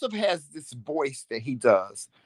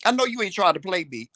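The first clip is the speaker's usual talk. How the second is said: sassy warning; 2 semitones lower than usual. Retold or imitated. Wife replays warning her husband not to play her. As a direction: warn him off with attitude. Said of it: "I was looking at him like".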